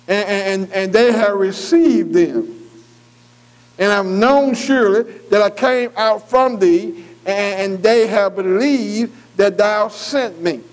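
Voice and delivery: very slow, drawn-out verse reading; scripture reading. Acted. Preacher reading out what they received and believed, slow scripture reading. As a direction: stretch the key words as you read scripture. Reads scripture aloud to the class.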